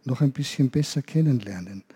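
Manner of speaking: gentle spoken prayer to the Saviour. Acted. Leading children in prayer, gentle and earnest. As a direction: pray softly with the children.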